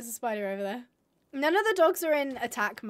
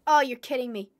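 exasperated complaint; 3 dB louder, faster than usual. Real, not acted.

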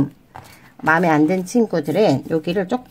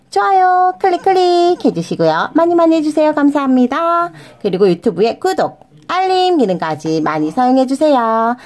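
cheery outro plea; 7 semitones higher, 4 dB louder than usual. Real, not acted. Cheerful YouTube outro call.

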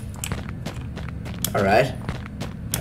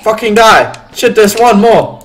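raised, urgent shout; combat yelling; 4 semitones higher, 5 dB louder than usual. Real, not acted. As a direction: yell at the enemy mid-fight. Shooting at enemies.

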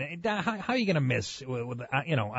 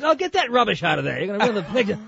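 lightly imitated English scolding, a bit louder; condescending Englishman; 3 semitones higher, 3 dB louder than usual. Englishman ordering a bag out of the picture, condescending English accent. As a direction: talk down in a mock English accent. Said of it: "just, just condescending".

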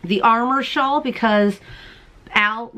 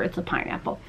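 whisper; 3 semitones lower, 10 dB quieter than usual. Real, not acted. Whispered aside about stitch marker.

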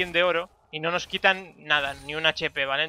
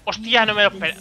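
startled loud outburst; sudden yelp of surprise; surprised shout; 4 semitones higher, 6 dB louder than usual. Real, not acted. Surprised by enemy flash.

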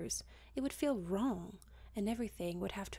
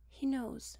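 sighing; 5 semitones higher, 3 dB louder than usual. Acted. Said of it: "she sighed".

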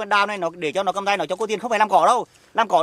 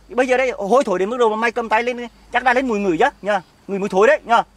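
angry taunt; 3 semitones higher, 4 dB louder than usual. Acted. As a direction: taunt the rival, pitched up and forceful. Chồng mỉa mai tình địch. (giọng mỉa mai gay gắt)

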